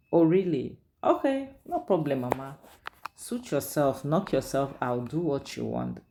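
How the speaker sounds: mock-bright "okay, no problem", then trailing off dismissively; sarcastic brush-off. Daughter sarcastically letting her mother handle it. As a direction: toss it back at her with fake sweetness.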